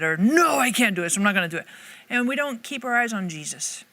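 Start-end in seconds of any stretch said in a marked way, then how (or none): 0.2-1.7 mock refusal. People looking at themselves, mock refusal.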